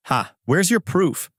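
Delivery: lightly scoffing, no real laughter. A narrator's reading. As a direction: open on a dry "Ha", then challenge slowly. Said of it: "He laughs and says".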